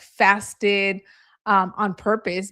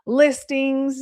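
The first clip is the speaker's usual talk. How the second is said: put-on irritated old man; 2 semitones higher, slower than usual. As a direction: imitate an annoyed elderly man, drawn out. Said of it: "He was very upset".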